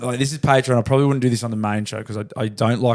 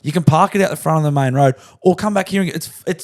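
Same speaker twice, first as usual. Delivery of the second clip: higher, heated retelling of the rant; retold telling-off; 5 semitones higher than usual. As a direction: boss recalling how he chewed out his worker, mock anger. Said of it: "'cause I was very angry and embarrassed about it".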